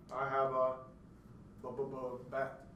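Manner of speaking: pause, repeat "bu-, bu-, bu-", then "bat"; demonstrated sound repetition before "bat"; stuttering example. Shown as a demonstration. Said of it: "I produce more extra syllables in that situation".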